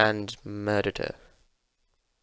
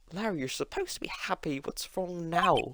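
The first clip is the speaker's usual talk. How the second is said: concerned friend; 7 semitones higher, 3 dB quieter than usual. Acted. Character addresses wailing Larry.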